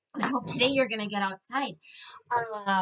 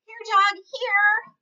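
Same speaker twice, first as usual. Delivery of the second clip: louder, higher call to the dog; 11 semitones higher, 9 dB louder, much slower than usual. Acted. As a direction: coax the dog over. Daughter calls dog.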